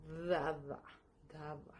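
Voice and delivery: Dava modelled, then repeated; pronouncing Dava. Shown as a demonstration. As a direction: demonstrate Dava for learners. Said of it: "pero se pronuncia".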